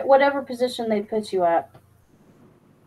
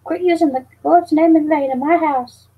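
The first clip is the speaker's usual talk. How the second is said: higher mock scolding mother; lightly voiced disapproving mom; 6 semitones higher than usual. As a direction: play his stern mom telling him off. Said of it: "She'd be like".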